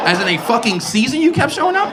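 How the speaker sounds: high, disbelieving squeal of a question; shocked at grandpa's confession; incredulous. Retold or imitated.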